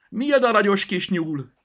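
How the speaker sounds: high, loud cry of astonishment; exclaiming. A narrator's reading. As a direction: shout in surprise at a discovery. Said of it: "kiáltotta a kofa".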